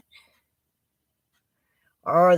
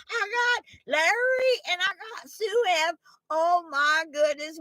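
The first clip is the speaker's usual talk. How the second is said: excited giggle; 11 semitones higher than usual. Real, not acted. Thrilled viewers joined.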